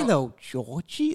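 slow, creepy clown voice; drawn-out clown impression; Pennywise. Shown as a demonstration. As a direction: stretch out the greeting like a luring clown. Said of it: "how do you do Pennywise?".

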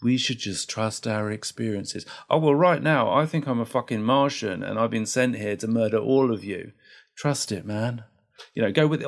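a hint of a breezy guru; lightly played chill therapist; voicing Carl Rogers. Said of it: "So Carl going".

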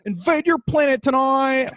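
alien voice. Retold or imitated. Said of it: "the aliens were like".

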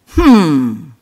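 one-syllable sound of total contempt; contemptuous hmm. Retold or imitated. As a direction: dismiss him with a single hum. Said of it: "a syllable of total contempt".

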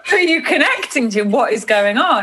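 bad German accent. Hairdresser questioning her over dinner, bad German accent. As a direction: put on a comically poor German accent, starting high. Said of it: "that's the worst impression of your accent ever".

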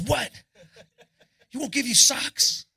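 high, loud shocked rocker voice; mock outraged high voice; Eddie reacting. Excited Eddie quote, retold story.

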